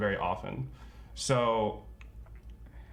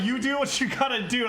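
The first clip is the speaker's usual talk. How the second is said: emphatic reassurance; 12 semitones higher, 4 dB louder than usual. Retold or imitated. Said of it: "I was just like".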